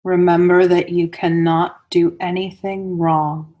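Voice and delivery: unhurried meditation guide with long pauses between phrases; guided meditation. Real, not acted. Teacher guiding listeners into Yoga Nidra, guided meditation voice. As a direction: lead them into stillness, phrase by phrase, leaving space.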